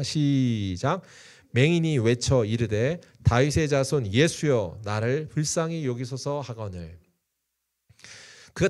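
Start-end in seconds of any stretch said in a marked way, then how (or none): 1.5-7.0 slow, measured Bible reading aloud; congregational reading. Real, not acted. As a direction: lead everyone reading the verse together, slowly. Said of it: "같이 읽겠습니다". (회중과 함께 천천히 성경 봉독)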